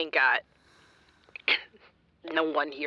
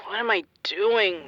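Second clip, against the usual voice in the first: tearful whisper. Acted. Alone, drunk and despairing.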